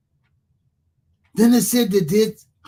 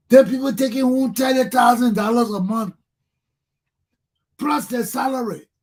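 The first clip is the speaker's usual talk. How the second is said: higher, louder outraged shout; 4 semitones higher, 3 dB louder than usual. Real, not acted. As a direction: shout it out in disbelief. Angry rant about pay.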